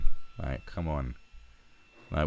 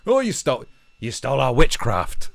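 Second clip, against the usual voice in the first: high, louder whiny mock outrage; mocking accuser; 5 semitones higher, 6 dB louder than usual. Mocking the claim of stolen witchcraft, whiny mock outrage. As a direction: parrot the complaint sarcastically. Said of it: "It's like".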